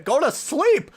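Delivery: high, slow playful scold; mock scold. Streamer scolding late-night viewers, high playful scold. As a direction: scold them like a tired parent.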